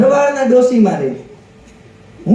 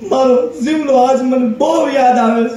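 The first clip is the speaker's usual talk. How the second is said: mock weeping old woman. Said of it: "તમે કેમ રોવો હો".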